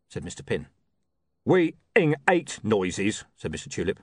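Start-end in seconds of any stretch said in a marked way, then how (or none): 1.4-3.2 menacing thug. Acted. Tulip growls slowly.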